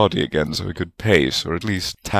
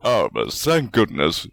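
grateful; 2 semitones higher than usual. A narrator's reading. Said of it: "Godric exclaimed gratefully".

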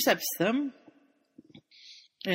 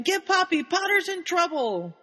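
retold urgent yell; high-pitched call for help, half-shouted; Severus; 10 semitones higher than usual. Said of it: "as he's yelling".

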